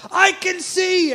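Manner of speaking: high, loud, slow joyful cry; ecstatic scream. Acted. Another healed woman to the crowd, joyful screaming. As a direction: shout that you can see again. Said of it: "started screaming out".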